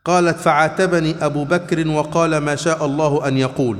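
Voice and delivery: slow, measured formal reading in Classical Arabic; hadith recitation. A narrator's reading. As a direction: read the hadith out, drawing out the phrases. (قراءة حديث متأنية بالفصحى)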